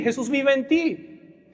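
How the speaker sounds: "Jesús vive en ti" drawn out slowly, stress on "vive"; preacher repeating to the congregation, slowed down; slow emphatic repeat. Real, not acted. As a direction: repeat it slowly so each word sinks in.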